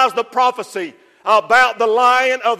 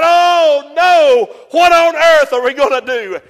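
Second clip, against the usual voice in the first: a touch of John's tearful wail; voicing John near tears; despairing cry; 3 semitones higher, 4 dB louder than usual. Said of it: "he begins to cry".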